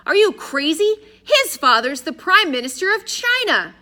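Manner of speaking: high, loud, incredulous outburst; astonished. A narrator's reading. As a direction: shout it in disbelief.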